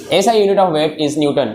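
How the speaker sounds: slow dictation to a class. Real, not acted. Teacher tells students to write, slow dictation. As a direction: say it slowly so they can write.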